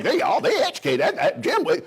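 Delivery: mock what they assume; imitating audience. Imitating the crowd's assumption, laughing mock shout. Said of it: "Y'all probably think".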